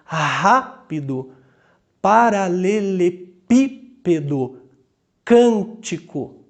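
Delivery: slow RÁpido, paralelePÍpedo, CÂNtico, stressed syllable punched; stress on antepenultimate syllable. Shown as a demonstration. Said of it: "A antepenúltima é a sílaba tônica".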